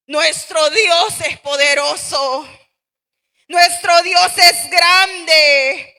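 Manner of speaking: slow, loud preaching cry; fervent proclamation. Real, not acted. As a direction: proclaim it slowly with full force.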